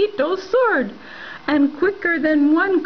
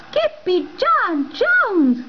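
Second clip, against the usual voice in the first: drawn-out shout; 6 semitones higher, slower than usual. Acted. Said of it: "everyone cried".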